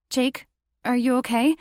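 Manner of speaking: concerned heroine. Acted. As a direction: gently ask if he's okay. Narrator voices worried heroine.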